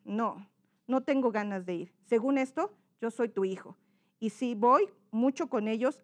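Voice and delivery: subdued, reluctant refusal; second character's intonation. Shown as a demonstration. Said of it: "son dos personajes". (negativa apagada del hijo)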